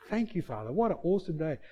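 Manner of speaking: acted peaceful gratitude, taking it easy; contented prayer. Man resting in the boat thanks his Father, contented.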